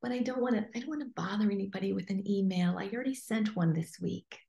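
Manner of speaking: soft, hesitant, mocking self-doubt; mock timid whine. Coach mimicking a timid client's excuses, soft and mocking. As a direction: play the shy excuse-maker, softly. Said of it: "how dare you go".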